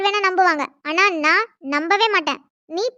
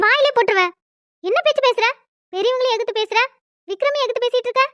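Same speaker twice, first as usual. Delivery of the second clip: scolding; 4 semitones higher than usual. Acted. Aunt scolding niece.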